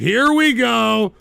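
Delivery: slow, drawn-out "Here we go"; long-suffering, strung-out groan of words; exasperated repeat. Real, not acted. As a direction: stretch "Here we go" in rising exasperation.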